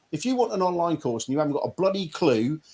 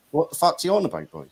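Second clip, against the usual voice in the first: broad Norfolk accent, pitched up; proper Norfolk accent; 3 semitones higher than usual. Shown as a demonstration. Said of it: "If I put my proper Norfolk accent on".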